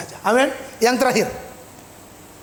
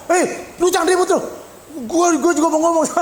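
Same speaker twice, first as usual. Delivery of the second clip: lightly mocked interrupters; squabbling patients; 2 semitones higher than usual. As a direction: butt in like a patient wanting a turn. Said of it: "Orang gila semua ngomong".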